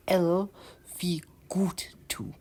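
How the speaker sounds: Northern Rupert's English greeting trailing into a whisper on wie gut tu. Shown as a demonstration. The second way to greet someone in Northern Rupert's English, whispered. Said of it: "the second option would be".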